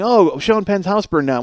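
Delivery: slow, fake-sorrowful "Oh"; mock sympathy. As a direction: pretend to pity him, sarcastically. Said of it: "I made fun of it on stage".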